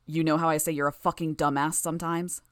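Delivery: a lightly echoing growl. Acted. Gru mocking Tattletale in a lightly echoing growl. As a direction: growl it with a slight reverberating echo. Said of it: "Gru growled in his echoing, reverberating voice".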